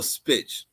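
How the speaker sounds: spitch, a deliberate twist of bitch; mock-taunting spitch; mocking mispronunciation. Shown as a demonstration. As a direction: say spitch with an sp where the b of bitch would be. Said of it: "You like how I say spitches".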